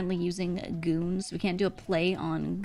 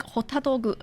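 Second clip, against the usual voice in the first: put-on higher-pitched "hotto doggu", Japanese-accented; imitating Hotaru; 4 semitones higher than usual. Showing how she says it, imitated Japanese accent. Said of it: "she does say it like that".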